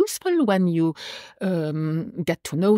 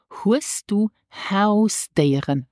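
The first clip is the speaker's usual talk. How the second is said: slow model phrase; 2 semitones higher, much slower than usual. Shown as a demonstration. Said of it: "This is".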